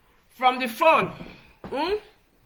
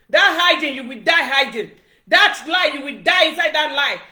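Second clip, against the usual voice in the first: loud heated curse; louder cursing of the liar; angry curse; 4 dB louder than usual. Real, not acted. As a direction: hurl the curse at him.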